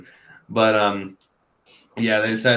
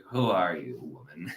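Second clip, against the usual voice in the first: Beerus; 5 semitones lower, 5 dB quieter than usual. Retold or imitated. Beerus questioning Chilai, acted.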